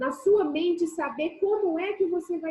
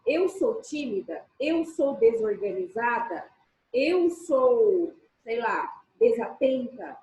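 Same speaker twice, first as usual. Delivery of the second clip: closed, emphatic; 3 semitones lower, slower than usual. Shown as a demonstration. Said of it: "de uma forma fechada, enfática".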